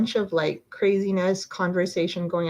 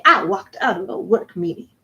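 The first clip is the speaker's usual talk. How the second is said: sassy; 5 dB louder than usual. Real, not acted. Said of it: "I'm just feeling sassy".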